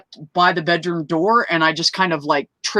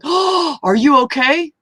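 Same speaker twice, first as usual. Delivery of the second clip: concerned high voice; 10 semitones higher, 4 dB louder, slower than usual. Retold or imitated. Others asking if she's okay.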